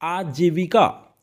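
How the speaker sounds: आजीविका drawn out with clear "vi"; slow model reading. Shown as a demonstration. Teacher shows students how to read it, slow model reading. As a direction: stretch आजीविका, aa-jee-vi-kaa, very slowly. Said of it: "कैसे पढ़ेंगे इसे आप?".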